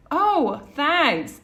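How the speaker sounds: shocked and surprised. Retold or imitated. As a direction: act out being caught off guard by a compliment. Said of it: "I was shocked and surprised".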